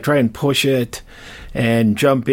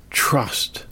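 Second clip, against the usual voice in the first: whispered; 3 dB quieter than usual. Real, not acted. Soft sign-off blessing.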